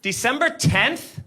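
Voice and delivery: slow, rising, disbelieving repeat; doubtful cop echo. Retold or imitated. Officer echoing the date back, slow and doubting. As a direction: stretch it out like you don't buy it. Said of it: "says the thing that you just said back to you".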